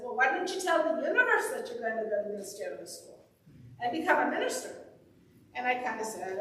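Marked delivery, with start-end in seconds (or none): 0.0-4.7 light hint of an Irish accent. Minister retells her mentor's advice, lightly Irish-accented. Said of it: "with her sp-, uh, Irish accent".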